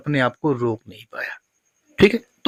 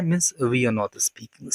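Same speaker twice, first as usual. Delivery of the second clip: slow model sentence; 2 semitones lower, 7 dB quieter, much slower than usual. Shown as a demonstration. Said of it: "मतलब इसका ये है कि".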